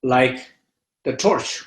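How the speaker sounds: unhurried meditation teacher with long pauses; guided meditation. Real, not acted. Teacher guiding listeners to feel fear in the body, meditative.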